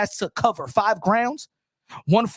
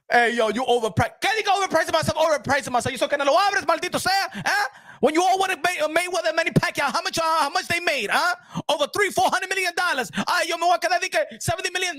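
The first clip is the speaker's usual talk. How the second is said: raised Canelo voice mixing Spanish, haggling for money; Canelo voice continued; 5 semitones higher than usual. Retold or imitated. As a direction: Canelo bargaining over his purse, pitched higher.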